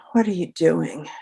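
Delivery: a subdued alternative reading; a different emotion. Shown as a demonstration. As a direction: say it quietly and evenly. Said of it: "Or if I'd rolled a six".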